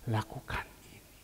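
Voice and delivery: soft whispered command; whispered divine voice. Retold or imitated. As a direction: hush it like God speaking inside. God's voice in prayer. (bisikan suara Tuhan)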